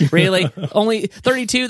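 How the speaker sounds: hammed-up incredulous retort; mock disbelief. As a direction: scoff at the small number. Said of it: "And I was like".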